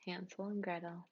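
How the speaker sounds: breathy whispered title. Acted. Narrator whispers the title to the audience, softly. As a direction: hush it like a secret.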